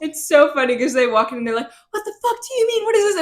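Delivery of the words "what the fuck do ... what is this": high-pitched incredulous quote; imitating someone totally thrown; mock bewilderment. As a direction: act out baffled disbelief, pitched way up. Acting out characters' shocked reaction.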